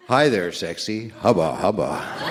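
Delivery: hammed-up slow seductive come-on, with a laugh; mock sexy voice. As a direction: play a cheesy flirt, half laughing. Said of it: "with a voice".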